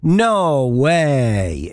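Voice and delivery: lightly broad Yorkshire no way; a hint of Yorkshire drawl; Yorkshire accent. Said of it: "in the finest Yorkshire accent".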